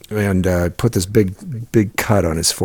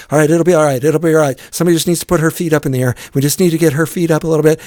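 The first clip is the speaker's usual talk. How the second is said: higher and louder, hammed-up calming of a fake medic; mock reassuring scout; 7 semitones higher, 5 dB louder, much faster than usual. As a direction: act the scout steadying the crowd, loud and hurried. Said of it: "and he's like".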